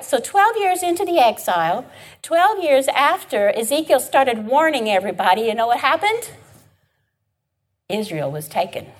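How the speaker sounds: usual speaking voice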